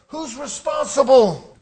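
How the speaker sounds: loud, slow, emphatic challenge; forceful question. Real, not acted. Preacher challenging the congregation to own it, forceful question. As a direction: drive the question home slowly and loudly.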